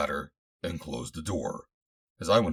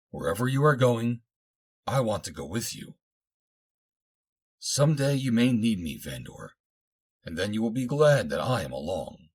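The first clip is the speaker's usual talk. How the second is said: slightly raised voice, earnest devotion; a hint of a submissive heroine; lightly voiced devoted girl; 5 semitones higher than usual. A narrator's reading. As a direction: pledge yourself, lightly in a young woman's voice. Voices Xanda insisting on coming.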